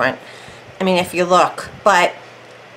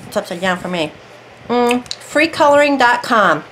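talking around a candy; candy in the mouth; mouth full. Real, not acted. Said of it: "I have a candy in my mouth".

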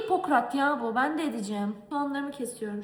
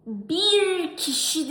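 mock plea; 5 semitones higher, 6 dB louder, much slower than usual. Pleading with hospital staff.

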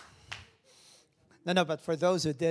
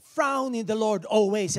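loud mocking wrong verse; mock misquote; 4 semitones higher, 9 dB louder than usual. Shown as a demonstration. Preacher mocking a misquoted verse, loud. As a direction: ham up the wrong word frown. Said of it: "and I'm saying".

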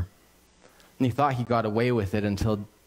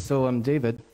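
sheepish confession. Retold or imitated. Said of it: "she comes back ... and says".

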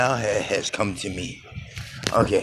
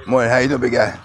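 loud, higher greeting called out; calling out hello; 3 semitones higher, 6 dB louder, faster than usual. Real, not acted. Walking vlogger greets a man he passes, calling out loud. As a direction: hail him warmly from a distance.

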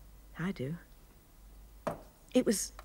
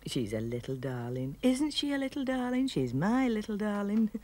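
teasing grandmother; 4 semitones higher than usual. Retold or imitated. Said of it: "she was teasing me and saying".

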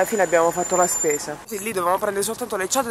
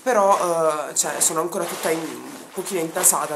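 stuffy, congested voice; blocked nose. Real, not acted. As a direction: talk through a blocked nose. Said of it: "scusate la voce".

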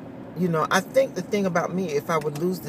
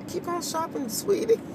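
teasing; 11 semitones higher, 3 dB quieter than usual. Retold or imitated. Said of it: "I was messing with her".

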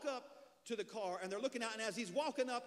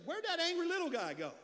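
high, loud and laughing through the question; laughing drunk; 9 semitones higher, 7 dB louder than usual. Retold or imitated. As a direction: crack up while playing the confused drunk. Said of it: "he looked back and said".

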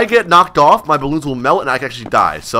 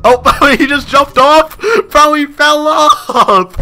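excited disbelief; 10 semitones higher, 5 dB louder, much slower than usual. Real, not acted. Last player fell.

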